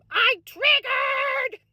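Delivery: high and slow, stretching every word; an exaggerated, stretched-out Minnesota wail; drawn-out lament. Real, not acted. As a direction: moan it slowly in mock despair. Dragged-out repeat of the outburst.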